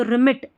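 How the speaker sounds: रिमिट with pressure on मिट; रिमिट, weight on its last syllable; stress on final syllable. Shown as a demonstration. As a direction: push a little on the मिट of रिमिट. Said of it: "pressure देके हम बोल रहे हैं".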